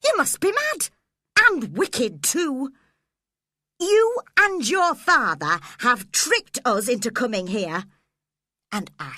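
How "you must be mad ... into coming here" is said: high, loud scolding; angry scolding. A narrator's reading. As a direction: scold him hard. Nurse scolding Linton.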